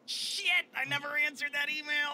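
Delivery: high panicked shit; sudden realization. Retold or imitated. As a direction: blurt it in alarm.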